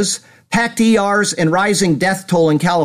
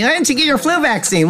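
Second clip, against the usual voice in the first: mocking quote; 9 semitones higher than usual. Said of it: "People telling me".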